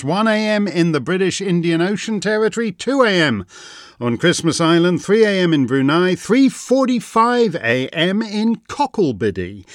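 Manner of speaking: lilting roll-call of time zones; announcer-like litany; ceremonial recitation. Acted. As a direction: recite the list with a rolling, measured lift.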